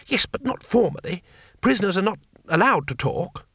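high, eager little man; chirpy high-pitched foreigner; high tourist voice. A narrator's reading. Two Flower voiced by narrator.

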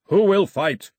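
loud, high challenge; yell. A narrator's reading. Milo challenges the raiders thumping his chest, loud yell. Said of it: "he yelled".

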